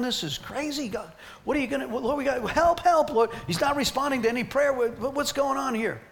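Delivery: high, pleading cry for help, rising to a shout at help; retold panicked prayer. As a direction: relive the panic, begging the Lord. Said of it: "and I'm like".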